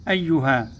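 أيها with its yā held double; doubled letter. Shown as a demonstration. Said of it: "كلمة بها حرفا مشددا".

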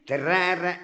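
"Terrare" lifted upward; rising pitch. Acted. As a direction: take "Terrare" up like a music teacher counting time. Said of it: "met een terrare naar boven".

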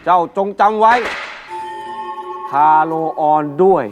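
low echoing ghost voice; ghostly echo. Acted. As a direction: call from beyond with echo. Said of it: "แต่ก่อนตายพ่อพูดเสมอ".

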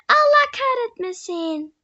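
high, slow, drawn-out cursing; dramatic curse. Real, not acted. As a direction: stretch out the curse in mock despair. Repeated curse after falling.

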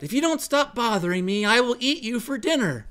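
a half-playful threat to the bird. Acted. Mike threatening the raven, mock-menacing threat. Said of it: "made a threat".

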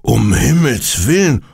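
high-pitched cry of alarm, acted; startled exclamation. A narrator's reading. Resident told someone climbed his balcony, startled. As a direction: exclaim it in narrated fright. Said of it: "ruft der Mann erschrocken".

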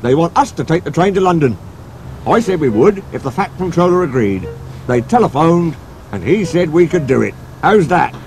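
the driver rushing to share good news; excited driver. Acted.

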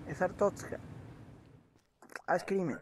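ordinary delivery

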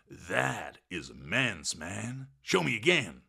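lightly awed dude; enthused. Acted. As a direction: gush with mild wonder. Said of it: "he enthused".

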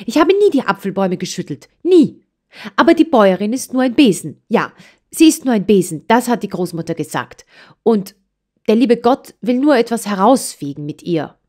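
high, fast, agitated venting; upset child. A narrator's reading. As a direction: let it all out, hurt and indignant. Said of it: "rief es aufgeregt". (aufgebrachtes Kind, hoch und hastig)

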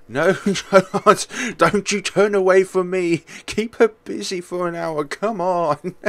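mock them in a sugary tone; fake calm parent. Taunting character voice.

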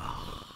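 soft mock huff of resignation; exasperated sigh. Believer hearing God say no, mock exasperated sigh. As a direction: sigh out the "oh", all breath.

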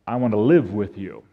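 low, soft and tender; gentle shepherd. Acted. Good shepherd comes in to the sheep, gentle. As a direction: say it softly to the flock.

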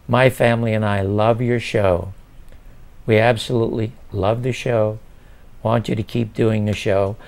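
measured, unhurried retold reassurance; very calm. Wronged man calmly reassuring the writer about the show, very calm. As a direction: say it evenly, with small pauses. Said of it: "he said very calmly".

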